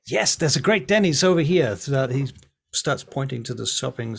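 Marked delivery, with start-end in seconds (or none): 0.1-1.8 higher, louder cheerful invitation; Francesco's eager voice. Acted. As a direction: pitch Denny's like an excited tour guide. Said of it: "Francesco says".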